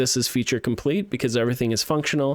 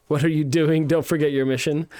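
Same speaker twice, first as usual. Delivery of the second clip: scolding game voice; 4 semitones higher than usual. Retold or imitated. Reading game character's warning.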